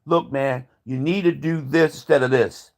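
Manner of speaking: lightly voiced adviser, low and soft; a hint of a hushed adviser coaching the president; advisor's voice. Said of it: "Donald Trump has people telling him".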